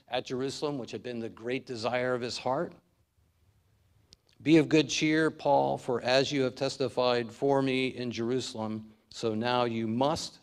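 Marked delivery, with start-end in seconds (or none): 4.4-10.4 Jesus's charge with must stressed. Acted. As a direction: press hard on the word must. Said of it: "and I emphasize the word must".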